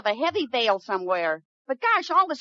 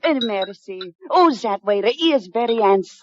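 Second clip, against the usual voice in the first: fake French accent; 6 semitones lower than usual. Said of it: "she has a decided French accent".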